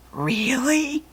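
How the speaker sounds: unsure whispered question; suspicious whisper. Acted. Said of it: "looked at her suspiciously".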